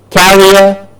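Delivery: carrier as "KA-ree-er"; careful pronunciation. Shown as a demonstration. Teacher contrasting word pairs, careful "KA-ree-er". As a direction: stress the front of carrier. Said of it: "Do you hear the difference?".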